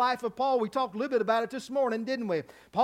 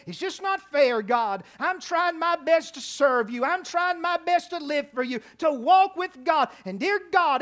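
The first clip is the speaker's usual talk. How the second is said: higher-pitched mock grievance to God; pity-party complaint; 4 semitones higher than usual. Believer telling God life isn't fair, mock self-pitying complaint. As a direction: plead your case like a self-pitying believer. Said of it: "in my pity party right now".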